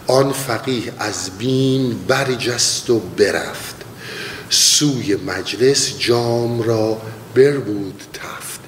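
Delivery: slow, measured reciting of a verse; poem recitation. Acted. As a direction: lay each word of the poem out slowly.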